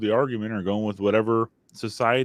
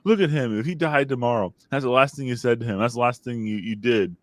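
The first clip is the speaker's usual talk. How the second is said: scolding dad; 4 semitones higher than usual. Retold or imitated. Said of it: "he did the same thing to her".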